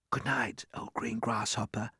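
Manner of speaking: soft, breathless whisper. Acted. James whispers goodnight in the dark. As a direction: whisper so no one wakes. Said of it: "he whispered".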